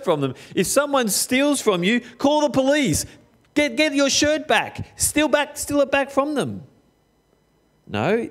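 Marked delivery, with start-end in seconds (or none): 0.6-6.6 mock worldly advice. Mocking worldly advice, high.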